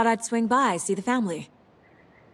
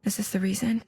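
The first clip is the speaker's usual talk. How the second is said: hushed questioning to herself; whisper, wondering; puzzled whisper. Acted. Inner monologue on her mind place.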